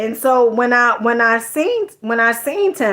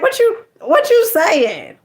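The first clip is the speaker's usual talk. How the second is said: big shot swagger; 6 semitones higher, slower than usual. Retold or imitated. Imitating a big shot flexing his ten million on the listener. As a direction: lean back and dare them like a big shot. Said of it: "like, a big shot".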